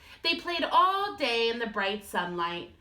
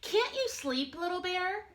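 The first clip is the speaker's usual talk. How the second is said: Big Bear voice; 9 semitones higher than usual. A narrator's reading. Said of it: "asked Big Bear".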